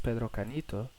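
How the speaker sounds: put-on Pedro Canito with a light Spanish accent. Naming his opponent in a light Spanish accent. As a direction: roll the name out in a hint of Spanish accent. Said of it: "I said it with a Spanish accent".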